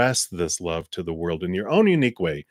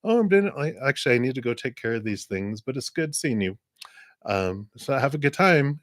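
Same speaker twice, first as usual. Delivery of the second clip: polite brush-off; 5 semitones higher than usual. Retold or imitated.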